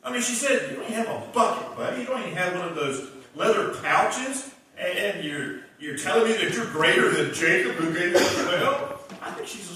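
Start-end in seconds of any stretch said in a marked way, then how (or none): 0.7-9.0 smart aleck. Retold or imitated. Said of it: "little smart aleck".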